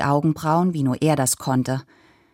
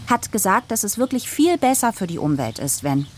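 put-on child's voice; 6 semitones higher than usual. A narrator's reading. Child argues with her father.

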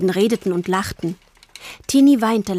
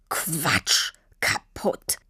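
scornful whisper; 4 semitones lower, 4 dB quieter, much slower than usual. A narrator's reading. Father scoffs bitterly.

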